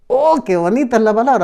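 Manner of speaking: delighted quote. Retold or imitated. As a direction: gush like a new believer thrilled. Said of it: "Muchos dicen".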